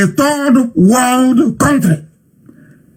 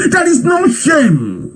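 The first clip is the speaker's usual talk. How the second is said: slow outraged shout; 5 semitones higher, much slower than usual. Real, not acted. Angry rant at own people.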